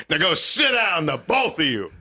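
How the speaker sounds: stern father's order. Retold or imitated. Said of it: "he says".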